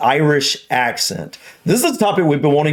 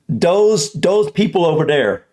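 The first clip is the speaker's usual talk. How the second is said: lightly attempted North Dublin, D for TH; North Dublin accent; 3 semitones higher than usual. Shown as a demonstration. Husband testing the accent he just learned, light North Dublin. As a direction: have a careful go at North Dublin. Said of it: "North Dublin accent".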